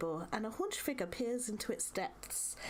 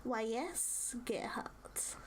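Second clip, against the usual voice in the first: crackly crone voice; slower than usual. Acted. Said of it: "her voice crackles like dry weeds".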